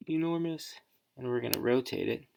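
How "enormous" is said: "enormous" repeated higher, in mock disbelief; amazed at how big the sticker came out; amused surprise. Real, not acted. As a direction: echo "enormous" as if startled by the size. Reacts to oversized sticker.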